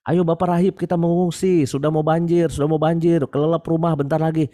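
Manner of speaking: urgent shout. Retold or imitated. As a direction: shout from the boat to come along. Rescuer calling from rubber boat. (teriakan mendesak penolong)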